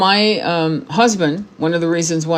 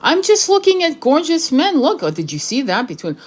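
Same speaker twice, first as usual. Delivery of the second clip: teasing husband; 3 semitones higher than usual. Retold or imitated. Wife teasing her husband at the beach, gushing mock admiration. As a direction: swoon at the magazine just to rile him. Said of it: "I was just fucking with him".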